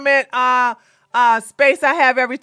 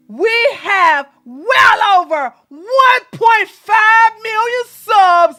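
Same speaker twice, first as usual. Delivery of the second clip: mocking quote; 3 semitones higher, slower than usual. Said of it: "And then you go".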